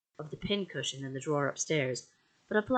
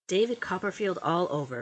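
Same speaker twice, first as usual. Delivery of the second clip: raised, scornful exclamation; cried out; 4 semitones higher, 5 dB louder than usual. A narrator's reading. Aunt scoffing at the late husband, loud cry. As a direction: call it out high and sharp. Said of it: "cried Miss Betsy".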